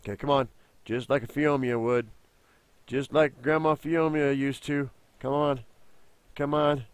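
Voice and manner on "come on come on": ordinary talk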